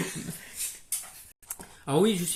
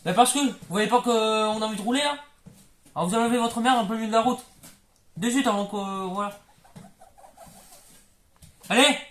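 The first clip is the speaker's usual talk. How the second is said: engueulade; 3 semitones higher than usual. Acted. Suite de l'engueulade au volant.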